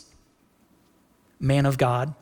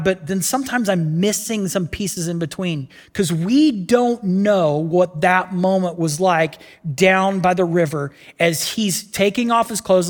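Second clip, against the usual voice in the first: ordinary delivery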